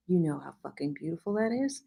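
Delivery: soft, fast hushed voice; whisper. A narrator's reading. The hero whispering to her in the scene. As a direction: hush it close and quick. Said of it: "he whispered".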